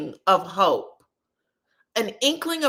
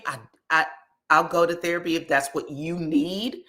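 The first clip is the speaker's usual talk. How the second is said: begrudging; 3 semitones lower than usual. Retold or imitated. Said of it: "he was begrudgingly saying".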